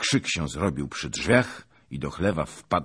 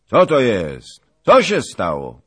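louder bewildered call; calling loudly; 4 semitones higher, 11 dB louder than usual. Acted. Zagłoba calling out in confusion, loud. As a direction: call out puzzled. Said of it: "zawołał głośno".

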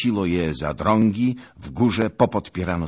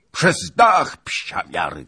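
higher, louder cry; shouted command; 8 semitones higher, 8 dB louder than usual. Acted. Bohun shouting at his cossacks to go through the roof. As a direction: yell it at the men. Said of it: "krzyknął".

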